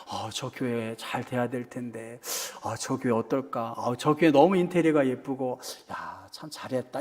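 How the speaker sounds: low, quiet musing under the breath.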